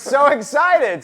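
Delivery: laughing through the word excited. Real, not acted. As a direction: giggle while saying it. Host laughs introducing giggling guest.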